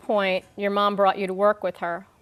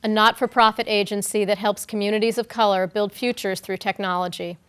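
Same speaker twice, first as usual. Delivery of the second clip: measured, scripted presenter read; formal introduction. Real, not acted. Host introducing a guest to an audience, formal read. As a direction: read it out as a prepared speaker introduction.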